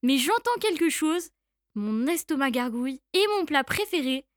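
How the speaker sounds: lightly voiced bold mouse; a hint of a bragging mouse; triumphant mouse. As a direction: turn the tables on the monster. Mouse threatens the gruffalo.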